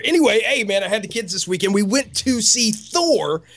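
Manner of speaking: ordinary talk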